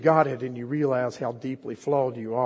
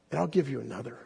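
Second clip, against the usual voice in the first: gently; 5 dB quieter, faster than usual. Acted. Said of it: "he said so gently".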